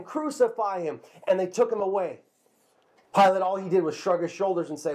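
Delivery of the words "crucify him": lighter repeat of the crowd chant, less high; crowd yelling, echo. Retold or imitated. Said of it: "They yelled out".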